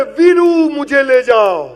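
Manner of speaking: hammed-up heroine calling across the field; calling from afar. Heroine calls out to Veeru from far off, slow and loud. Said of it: "અને દૂરથી બૂમ પાડે".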